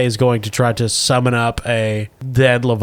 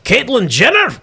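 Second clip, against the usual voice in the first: monster voice; 8 semitones higher than usual. Acted. Leviathan names its enemy.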